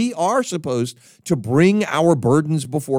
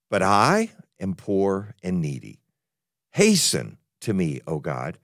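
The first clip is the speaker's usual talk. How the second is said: scripture reading. Acted. Preacher reads the psalm to his congregation, solemn and measured. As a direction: read the psalm aloud with reverence.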